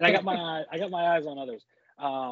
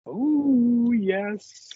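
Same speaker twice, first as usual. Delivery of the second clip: excited; 11 semitones higher, 7 dB louder than usual. Real, not acted. Bid war excitement.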